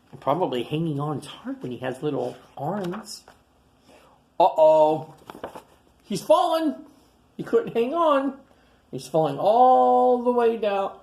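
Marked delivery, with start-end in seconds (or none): 4.4-11.0 higher, louder dramatic telling; alarmed narration. Acted. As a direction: gasp out the fall. Tiny falling, narrator alarmed.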